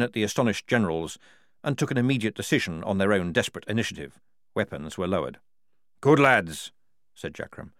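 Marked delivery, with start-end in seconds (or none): 6.0-6.7 loud, high-pitched parade-ground sergeant; bellowing sergeant. A narrator's reading. Sergeant warning the frightened guards, loud and commanding. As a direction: warn the guards off like a fierce sergeant.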